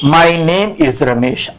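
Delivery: slow, relaxed, unhurried; calm and easy. Shown as a demonstration. Teacher shows students the calm way to introduce themselves, slow. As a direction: say it at ease, without fear. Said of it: "say it like this".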